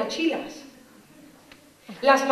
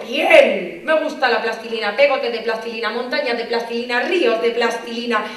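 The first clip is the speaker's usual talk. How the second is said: louder, gushing about plasticine; eager child; 4 dB louder than usual. Retold or imitated. Child thrilled about clay time.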